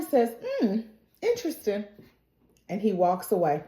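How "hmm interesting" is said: softer, unhurried pondering; cool musing. Retold or imitated. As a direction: muse quietly to yourself. Acting out monster's cool remark.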